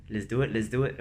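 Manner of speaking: lightly imitated Singaporean accent; a touch of Singaporean English, mimicking a running buddy. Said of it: "like, a Singaporean accent. He's kinda like".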